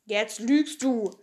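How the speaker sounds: put-on slow, flat accusation from a small boy; accusing Tommy. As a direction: say it slowly, calling her out.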